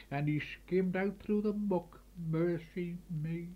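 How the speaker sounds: lilting storyteller's poem recital; rhythmic folk-poem reading in broad dialect; dialect recitation. Acted. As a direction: recite it like a village gossip yarn.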